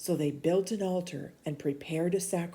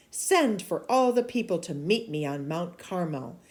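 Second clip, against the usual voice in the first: stern prophet rebuking. Acted. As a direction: scold the king like a bold prophet. Elijah's challenge to Ahab.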